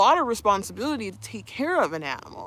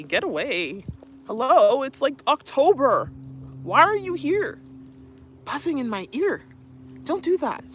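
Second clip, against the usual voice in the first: high, exasperated shooing at a buzzing bee; scolding a bee; 6 semitones higher than usual. Real, not acted. Speaking to a bee buzzing in her ear, annoyed and high. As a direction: tell the pest off, half laughing.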